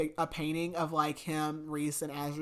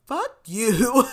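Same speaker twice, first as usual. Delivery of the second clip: a sudden loud curse, pitched up; angry snap; 6 semitones higher, 9 dB louder than usual. Retold or imitated. Nesta snapping at her sister, a loud angry curse.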